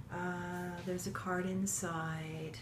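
normal talking voice

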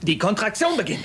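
over-forceful coaching call; startlingly loud announcement. Acted. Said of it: "Schrei doch nicht so, du erschreckst mich".

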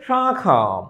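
শাখা with the first vowel sent through the nose; nasalised vowel. Shown as a demonstration. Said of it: "এটা উচ্চারণটা কি হবে".

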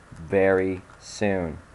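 "Very soon" drawn out very slow, "Very" leaned on; slow ominous threat, hammed up; mock menace. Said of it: "repeated slowly after".

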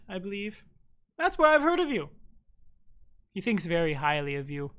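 mild fey matron voice; lightly voiced eccentric elder. GM keeps NPC voice.

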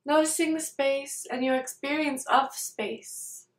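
calm meditation guide, unhurried, with long pauses between phrases; guided meditation. Real, not acted. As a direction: lead them gently through it, leaving space after each phrase.

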